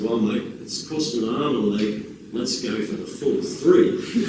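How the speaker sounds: put-on lightly done Australian accent, unhurried. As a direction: imitate an Aussie phone voice, half-hearted. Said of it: "excuse my phone Australian accent".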